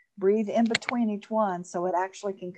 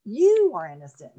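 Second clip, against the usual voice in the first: firm affirmation; 7 dB louder than usual. Shown as a demonstration. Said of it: "and then you say it again".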